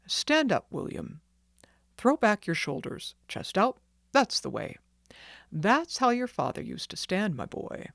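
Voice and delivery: put-on straighten the boy up with pride; firm encouraging doctor. Doctor coaching posture.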